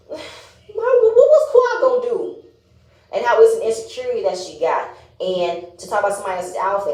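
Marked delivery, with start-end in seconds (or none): 0.1-2.4 high, loud, incredulous squeal; high exasperated squeal. Real, not acted. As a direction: throw up your hands vocally. Exasperated at Anila's crying.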